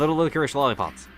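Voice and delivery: quick, even run through the tongue twister; fast tongue twister. Shown as a demonstration. Friend dares a fast repeat, fast tongue twister. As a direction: rattle it off quickly. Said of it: "if you say it fast".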